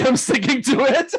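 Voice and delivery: high, loud words breaking into laughter; laughing. Real, not acted. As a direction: crack up while saying it. Cracks up at own sign-off.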